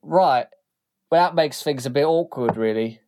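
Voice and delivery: rough thug voice, awkward. Acted. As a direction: shrug it off uneasily. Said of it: "Stony Tim says".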